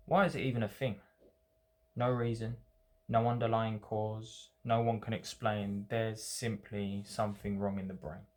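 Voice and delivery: measured poetry recital with pauses between lines; poem reading. Acted. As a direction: read your own poem aloud, letting each phrase stand. Reads own poem aloud.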